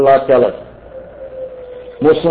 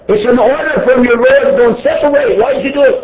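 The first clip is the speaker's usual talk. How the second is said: emphatic preaching; 8 semitones higher than usual. Acted. Preaching at force.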